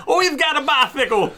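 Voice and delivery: high squeaky giggling line; laughing mock quote. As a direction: say it through laughter. Mocking quote amid laughter.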